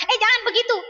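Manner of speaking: put-on mother telling the child off firmly; firm correction. Shown as a demonstration. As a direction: set a clear limit for the child. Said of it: "Harus dikasih tahu".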